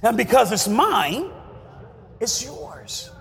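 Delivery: low, soft voice of God speaking down; low quiet voice as God telling his children; voicing God. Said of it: "he's like".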